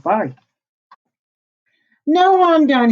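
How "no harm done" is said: wolf voice. A narrator's reading. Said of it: "he said".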